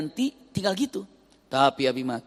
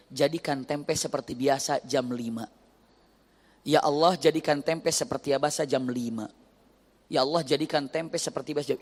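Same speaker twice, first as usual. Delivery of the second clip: pleading prayer; 2 semitones lower than usual. Retold or imitated. Wife's repeated prayer.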